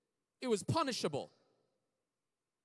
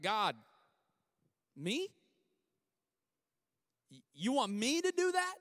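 incredulous; 3 semitones higher than usual. Retold or imitated. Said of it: "it sounds like".

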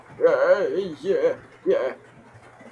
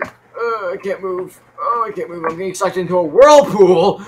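raised pitch, building to a shout; struggle, then yell in alarm; distressed straining; 6 semitones higher, 11 dB louder than usual. Real, not acted. Struggling in game whirlpool.

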